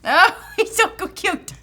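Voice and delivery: gushing over cuteness, laughing; slow delighted coo; excited anime fan. Real, not acted. Gushing over cute toy.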